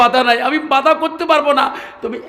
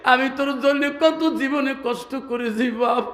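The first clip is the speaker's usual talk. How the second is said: ordinary delivery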